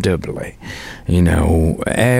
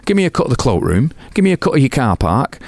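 defiant refusal; 7 semitones higher, faster than usual. Retold or imitated. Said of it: "And I go".

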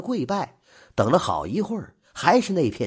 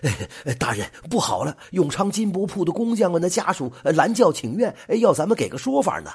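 flustered; 5 semitones higher, faster than usual. Acted. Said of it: "钱典吏慌里慌张地跑过来说".

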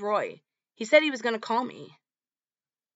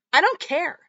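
retold shout; 9 semitones higher, 6 dB louder than usual. Shouting match about the play.

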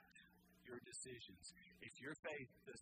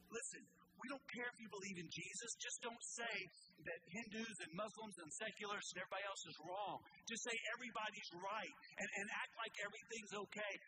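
preacher mimicking a smug culture; mocking the world's voice; 4 semitones higher than usual. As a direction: voice the pushy world, scornful. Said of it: "that's what Nebuchadnezzar was doing".

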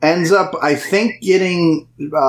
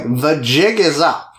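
nasally voice; slower than usual. Retold or imitated. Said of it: "puts on this weird nasally voice".

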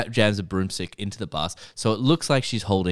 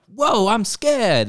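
mock scared brother; 14 semitones higher, 6 dB louder, much slower than usual. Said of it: "her brother's like".

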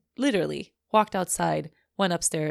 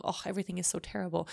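mock self-pity; 5 dB quieter, much faster than usual. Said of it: "like, hole of".

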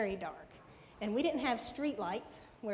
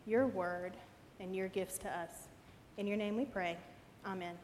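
prayer voice. Acted. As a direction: pray it gently to the Lord. Pastor opens with prayer.

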